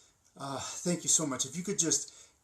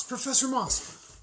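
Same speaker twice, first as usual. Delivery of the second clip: high, loud and slower, stretching the name; calling out, drawn out; 11 semitones higher, 4 dB louder, slower than usual. Acted. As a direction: call her again, slower and more insistent. Calling after a colleague again.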